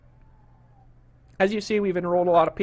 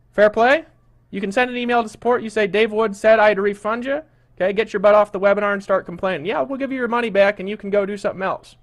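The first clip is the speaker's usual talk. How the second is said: louder, blunt kick-out warning; annoyed scolding; 4 dB louder than usual. Real, not acted. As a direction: make it clear he is out. Host scolding complaining webinar attendee.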